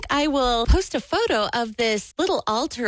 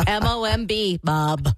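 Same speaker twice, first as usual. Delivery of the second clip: Dave; 2 semitones lower than usual. Acted. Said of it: "Dave has a voice like this".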